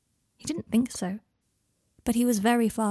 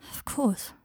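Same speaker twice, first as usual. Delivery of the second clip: hoarse; 2 semitones higher than usual. Acted. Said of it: "said Harry, hoarsely".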